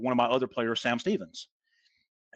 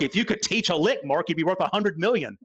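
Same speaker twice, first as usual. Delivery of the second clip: teasing a friend; 4 semitones higher than usual. Retold or imitated. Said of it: "I tell Mark".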